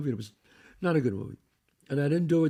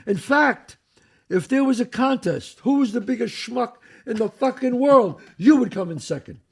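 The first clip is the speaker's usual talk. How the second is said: Matthau building up; 6 semitones higher, 6 dB louder than usual. Retold or imitated. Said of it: "He goes".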